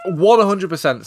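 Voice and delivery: slow, loud and high, leaning on every word; emphatic. Real, not acted. Co-host agreeing about the foot fetish, slow and emphatic. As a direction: hammer it home slowly.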